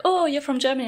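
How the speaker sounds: mock surprised stranger. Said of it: "so she was like".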